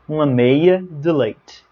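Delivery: "Uma meia de leite" slow, Portuguese vowels; Portuguese pronunciation. Shown as a demonstration. Teacher to students, modelling the Portuguese order. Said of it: "em Portugal a gente fala".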